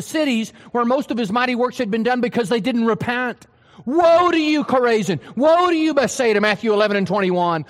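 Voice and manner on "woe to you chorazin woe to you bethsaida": loud, raised pronouncement of woe; stern denunciation. Acted. Preacher voicing Jesus condemning the cities, loud and stern. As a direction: thunder the woes at the cities.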